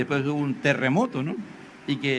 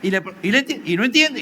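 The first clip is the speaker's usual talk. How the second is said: rising frustration; 4 semitones higher, faster than usual. Acted.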